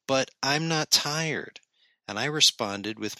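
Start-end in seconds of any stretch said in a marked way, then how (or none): 0.1-1.6 put-on slow, drawn-out kid whine; whiny child voice. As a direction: whine it like a tired five-year-old. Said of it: "said in an adorably whiny voice".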